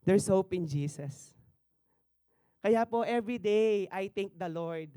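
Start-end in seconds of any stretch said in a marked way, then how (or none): 0.0-1.3 slow and loud. Shown as a demonstration. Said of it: "Sinabi rin po ng sister ko yun".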